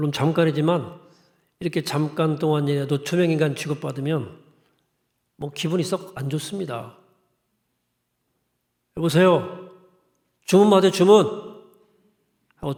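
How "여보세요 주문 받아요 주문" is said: louder, blunt, curt delivery. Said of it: "퉁명스러운 말을 건넬 수밖에".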